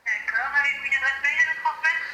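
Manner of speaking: tinny phone call voice; over the phone. Real, not acted. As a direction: voice through a phone line. Phone agent speaking.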